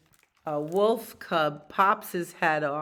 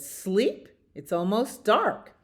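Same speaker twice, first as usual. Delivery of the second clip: higher voice, questioning first word; incredulous bird; 4 semitones higher, 4 dB louder than usual. Acted. Bird answers sleepless beaver, higher incredulous voice. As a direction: query it, then point out the obvious. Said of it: "the bird said".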